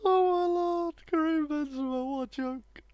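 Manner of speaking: amused disbelief. Real, not acted. Reacting to a funny miss.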